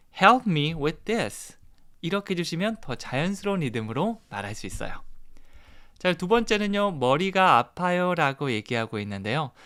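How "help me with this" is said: heavy, strong stress on the word "help". English lesson on natural sentence rhythm, stress on Help. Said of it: "앞에 있는 동사의 강세를 강하게 주면서".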